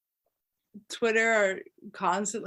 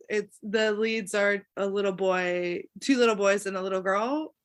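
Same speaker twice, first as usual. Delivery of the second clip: lower-pitched and faintly dismissive; derisive tone; 4 semitones lower than usual. Real, not acted. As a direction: belittle them as you list them. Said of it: "like, the derisive tone".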